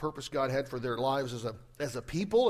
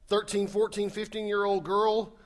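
normal talking voice

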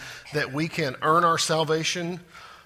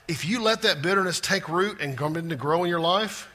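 ordinary talk, nothing marked

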